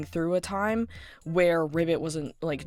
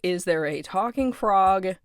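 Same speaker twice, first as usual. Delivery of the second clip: bewildered panic; 2 semitones higher, 4 dB louder than usual. Acted. Jax bewildered in scene.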